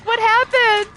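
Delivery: high, loud mock alarm; retold shocked question. Anna seeing her fresh out of bed, mock shock. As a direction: imitate someone aghast at the sight of you.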